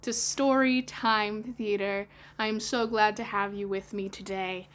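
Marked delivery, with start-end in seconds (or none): 0.0-2.1 put-on bright, slow children's host greeting; storyteller welcome. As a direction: welcome the little listeners warmly.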